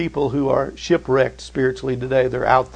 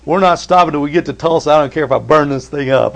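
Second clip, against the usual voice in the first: retold anger; 4 dB louder, faster than usual. Angry retort to wife in story.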